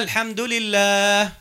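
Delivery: slow, drawn-out recited phrase; Quran recitation. Shown as a demonstration. Teacher demonstrating Al-Fatiha to students, slow recitation. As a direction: recite slowly, lengthening the final word. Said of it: "باش نقرأ الفاتحة".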